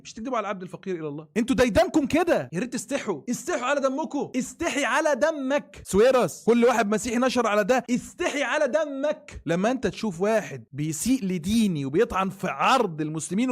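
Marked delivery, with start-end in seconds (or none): 4.4-5.8 each word dragged out, slow and pointed; slow scolding. Real, not acted. Scolding the host for his insults, slow and pointed. 7.9-9.4 slow rebuke broken by laughter; scolding with a laugh. Real, not acted. Scolding the host again, slow and laughing.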